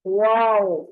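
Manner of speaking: वाओ with fully rounded lips and no teeth on the lip; Arabic waw, lips fully round. Shown as a demonstration. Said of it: "होंठों को मुकम्मल गोल करके".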